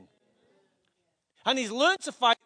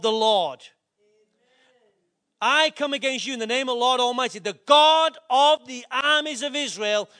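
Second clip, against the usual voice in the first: bold declaration; 4 dB louder than usual. Pretend. David's proclaimed challenge.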